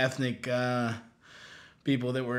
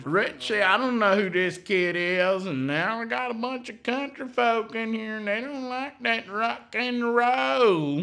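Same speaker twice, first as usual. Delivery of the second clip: high, drawling redneck voice; redneck accent; 8 semitones higher than usual. Retold or imitated. This redneck guy.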